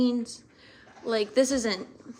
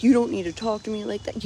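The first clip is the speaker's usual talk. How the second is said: retold going off; 3 semitones higher, 4 dB louder than usual. Stepdad rebuking snappy comments, mock indignant scolding. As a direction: scold as the stepdad, mildly heated. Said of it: "he went off on me and he's like".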